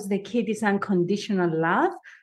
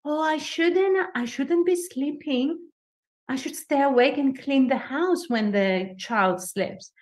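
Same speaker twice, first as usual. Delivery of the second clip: guilty inner voice; 4 semitones higher than usual. Retold or imitated. New mother scolding herself for napping, in a mildly fretful inner voice. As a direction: voice the nagging guilt lightly. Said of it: "But you feel guilty".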